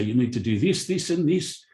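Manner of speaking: light mock South African accent, quoting a demanding boss; hammed-up South African voice rattling off tasks; fake South African accent. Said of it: "that's my fake South African accent".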